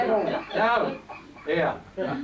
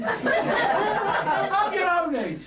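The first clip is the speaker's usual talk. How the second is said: high, slow mock-shrewish shout; nagging neighbour; 9 semitones higher, much slower than usual. Street woman sending kids away, mock nagging. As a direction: bark it like a fed-up neighbour.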